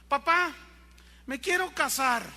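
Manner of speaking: put-on a little boy blurting out his big plan; eager child. Small son telling his father he wants to marry, eager.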